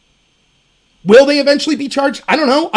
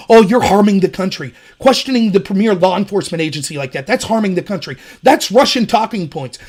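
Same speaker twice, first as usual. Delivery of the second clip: mock scolding; 5 semitones lower than usual. Mocking media scolding.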